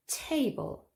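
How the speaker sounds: TA-ble, first syllable punched; stress on first syllable. Shown as a demonstration. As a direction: say table with weight on TA. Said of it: "the stress is on the first syllable".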